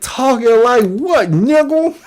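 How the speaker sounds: lightly voiced mock of the man in the wig; mocking imitation. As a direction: parrot his comeback with a mocking lilt. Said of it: "he said".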